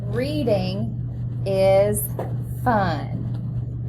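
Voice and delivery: reading along word by word; choral read-along. Shown as a demonstration. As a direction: read it together with the children. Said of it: "Let's read it together".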